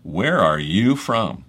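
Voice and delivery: slow question leaning on "you"; "you" stressed and stretched. Shown as a demonstration. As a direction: draw the question out, weight on "you". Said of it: "the emphasis is on you".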